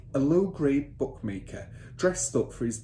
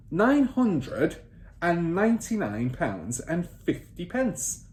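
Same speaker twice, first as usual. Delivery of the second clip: higher, louder command to write; bossy father; 8 semitones higher, 4 dB louder, much slower than usual. Acted. Father ordering son to take down figures, bossy. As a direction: snap the order at the boy.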